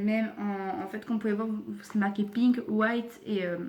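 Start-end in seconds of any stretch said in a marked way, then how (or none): 2.2-3.2 English words in a French accent. Real, not acted. Showing viewers the label, French-accented English. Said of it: "excusez-moi pour mon accent anglais qui est horrible".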